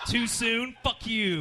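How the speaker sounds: mock-defiant comic tag line; punchy callback catchphrase. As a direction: slam the catchphrase home as the closer. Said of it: "After every joke, he said".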